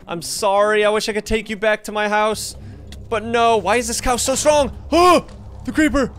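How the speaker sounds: high sing-song cooing at a cow; high apologetic coo rising to a startled gasp. Real, not acted. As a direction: coo at the cow as if it were a pet. Talking sweetly to a cow.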